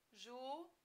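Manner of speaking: juízes broken into ju, í, zes; long pauses between the syllables of juízes. Shown as a demonstration. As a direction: softly spell out juízes in three separate beats. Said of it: "olha como é que ficaria".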